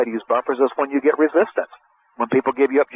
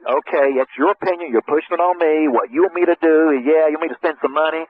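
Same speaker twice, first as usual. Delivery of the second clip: higher, guarded and a little resentful; wary prospect; 3 semitones higher than usual. Retold or imitated. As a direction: voice the prospect bracing against a push. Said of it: "they're feeling like".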